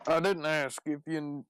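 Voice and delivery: lightly Southern cowboy voice; Southern accent. Acted. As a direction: start in Southern character, then falter. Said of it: "You sound rather southern".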